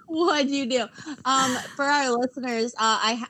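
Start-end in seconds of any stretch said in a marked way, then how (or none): 0.0-0.9 laughing through the question. Real, not acted. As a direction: giggle while asking.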